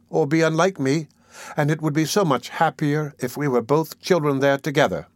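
understated fervour, plaintive and sincere; fervent child. Acted. The child speaks of dying young, with gentle fervour. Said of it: "speaking with great fervour".

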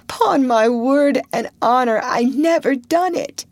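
high, loud sobbing oath; tearful protest. A narrator's reading. Potter swearing to the crowd he never did it, tearful. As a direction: swear innocence through tears. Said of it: "he sobbed".

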